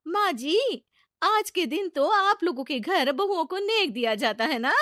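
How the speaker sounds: high, sweet prompting; hint for a gift; sly young bride. Acted. Young bride asks her mother-in-law about the gift, high sweet voice. Chachi's bahu sweetly hints.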